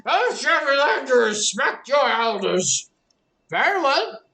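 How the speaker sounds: villainous command. Acted. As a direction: snap into a villain giving orders. Elder reveals himself, orders attack.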